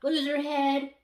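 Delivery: booming villain command; loud, commanding evil overlord; dark lord. Retold or imitated. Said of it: "That's what he says in Family Guy".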